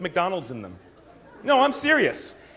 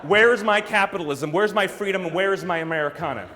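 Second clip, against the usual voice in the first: loud, insistent mock demand; 5 dB louder than usual. Traveler abroad hunting for McDonald's, mock demanding. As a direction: call out for it as if owed.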